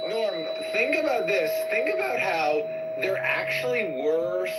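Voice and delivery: put-on Indian accent. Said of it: "Your Indian accent is so freaking funny".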